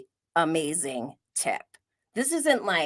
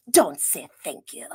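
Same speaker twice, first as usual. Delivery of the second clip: lightly imitated French accent; retold chef's line with a hint of French; 4 semitones lower than usual. Chef turning back on the guests, mild French accent. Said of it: "in his French accent".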